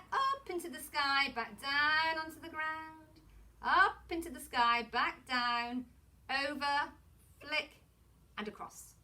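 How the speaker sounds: drawn-out, rhythmic teacher patter; handwriting patter. Shown as a demonstration. Teacher demonstrates strokes to young pupils, drawn-out handwriting patter. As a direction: stretch each word to match the moving pencil. Chants letter formation while demonstrating.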